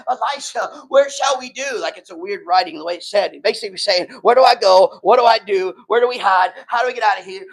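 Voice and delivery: urgent, loud panicked cry; a frantic servant yelling for help. Retold or imitated. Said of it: "and he panicked".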